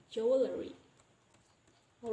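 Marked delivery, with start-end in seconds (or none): 0.1-0.7 jewelry as "jew-uh-le-ree"; inserted vowel. Shown as a demonstration. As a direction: put a vowel between L and R in jewelry. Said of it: "we can pronounce it easily as".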